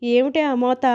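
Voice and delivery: put-on a startled old woman's cry; startled fright. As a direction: jump at the bang and cry out. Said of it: "హడలిపోయి".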